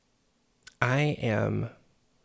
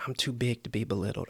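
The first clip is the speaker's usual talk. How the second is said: proud affirmation; faster than usual. Pretend. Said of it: "It's to say".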